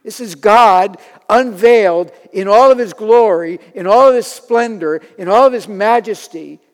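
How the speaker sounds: loud, rising proclamation; preacher thundering about glory; preaching climax. Real, not acted. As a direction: proclaim God's glory at full force.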